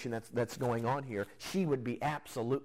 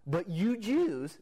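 "Jews" drawn out slowly, higher and louder; stress on Jews; 6 semitones higher, 4 dB louder, much slower than usual. Shown as a demonstration. Preacher stressing "Jews" to show the woman's distance, slow and pointed. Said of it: "see the distance there?".

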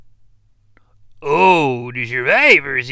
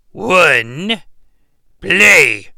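louder barked order; shouted command; 4 semitones higher, 7 dB louder than usual. Acted. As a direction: yell it at the TV. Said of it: "I'm supposed to say".

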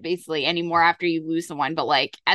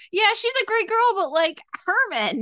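mock fretting; 12 semitones higher than usual. Gallo confiding in Ritter about Tracy and Herman, mock fretting. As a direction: voice his hesitation up high, stretching the end.

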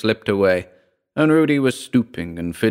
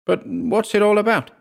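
wailing; 12 semitones higher than usual. Acted. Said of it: "his wife wailed".

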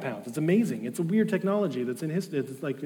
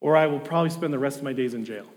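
ex-convict grumbling, loud and raised; angry Valjean; 3 semitones higher, 6 dB louder than usual. Retold or imitated. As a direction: voice the thief's resentment. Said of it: "he gets angry about this".

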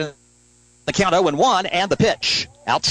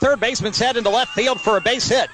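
higher-pitched, running hit call; excited play-by-play; 4 semitones higher than usual. Real, not acted. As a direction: follow the ball with rising excitement. Live call of a base hit.

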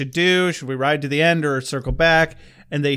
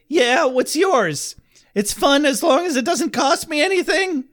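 megalomaniac rant; 11 semitones higher, 4 dB louder than usual. Acted. Villain James's rant.

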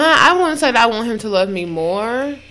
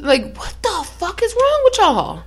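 exasperated; 11 semitones higher than usual. Real, not acted. Exasperated rant at men.

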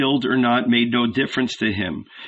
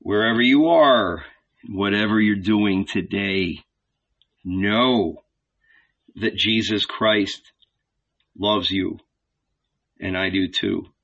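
sincere; 3 semitones lower than usual. Real, not acted. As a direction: speak it gently to the listener. Sincere blessing to listeners.

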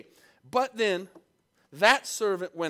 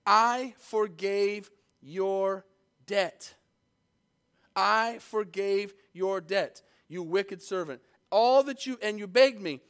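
slow, emphatic reproach building louder; stern Lord; 2 semitones higher, 4 dB louder, slower than usual. Acted. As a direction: lean hard on each word, rising to a louder rebuke. Jesus voiced rebuking the servant.

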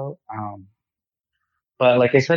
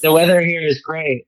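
wind tunnel; 4 semitones higher, 3 dB louder than usual. Real, not acted. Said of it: "sounds like he's in a wind tunnel".

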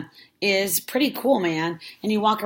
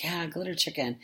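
whisper; 6 dB quieter than usual. Retold or imitated. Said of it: "I was like".

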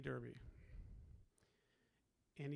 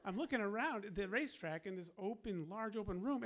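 laughing; 4 semitones higher, 3 dB louder than usual. Real, not acted. Laughing while retelling.

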